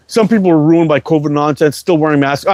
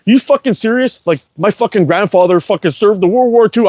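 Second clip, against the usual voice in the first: retold indignant rant, pitched up; full Karen; 6 semitones higher than usual. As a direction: replay an incredulous, higher-pitched complaint. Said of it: "full fucking Karen on her".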